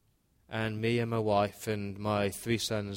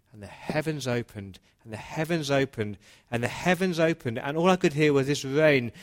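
building to dramatic shout; 4 semitones higher, 6 dB louder than usual. A narrator's reading. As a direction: start plain, climb higher and much louder, slowing on the rain. Flood narrated, rising drama.

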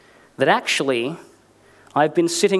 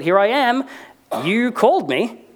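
put-on eager young Samuel; 7 semitones higher than usual. A narrator's reading. Boy Samuel answers Eli.

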